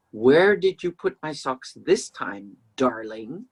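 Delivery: slow, pointed, sarcastic; slowed-down barbed sweetness; sarcastic question. Shown as a demonstration. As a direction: make darling sound loaded. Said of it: "the tone of what I say will be much more important".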